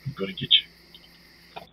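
slow, breathy threat whisper; menacing whisper. Pretend. Player stalking the game monster, slow menacing whisper. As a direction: hiss it slowly like a stalker.

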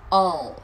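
"Ồ" as English all, long and falling into L; final dark L. Shown as a demonstration. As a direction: end "Ồ" with the tongue tip curled up. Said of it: "Lưỡi cứ cong lên là được".

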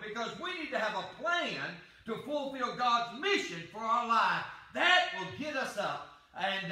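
fervent sermon, rising and falling; preaching. Acted. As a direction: preach it out with conviction.

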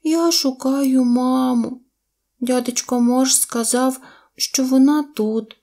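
put-on high, slow childlike voice; baby mammoth. A narrator's reading. Lost baby mammoth tells deer of its search, high and slow. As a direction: explain slowly in a high little voice.

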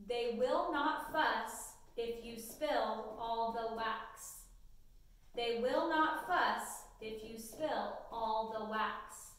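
slow, clear dictation read to students. Acted. Teacher dictating a sentence to students, slow and clear. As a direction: read each word slowly so they can write it.

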